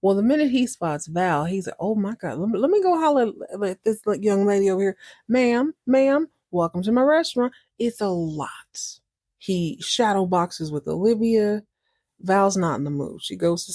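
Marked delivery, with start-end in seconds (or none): 1.8-7.5 lightly animated, higher-pitched greeting on the quicker bits; mock big-personality host calling out. Barman hollers at young lady in his restaurant, animated. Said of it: "really animated".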